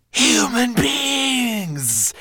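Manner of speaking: very high, slow, hissing monster cry; monster's hiss. Acted. Monster mocking the dragon's fear of humans, hissing. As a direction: hiss the words out in scorn. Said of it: "hissed the monster".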